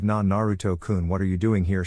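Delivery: stammering in shock; stuttering. Acted. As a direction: trip over the first sounds. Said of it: "she stuttered out".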